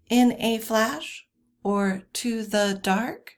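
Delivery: slow "in a flash or to the dark", landing on "flash" and "dark"; two light syllables, then stressed "flash" and "dark"; anapestic stress. Shown as a demonstration. Teacher illustrating anapests, slow stress on "flash" and "dark". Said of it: "two unstressed syllables followed".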